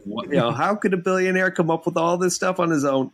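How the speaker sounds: quoted comedian's incredulous question. Retold or imitated. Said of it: "He's like".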